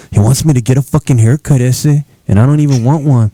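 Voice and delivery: lightly put-on Chicano friend voice; a hint of a teen chola accent, saying ese; Lewis accent. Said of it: "that's my Lewis accent".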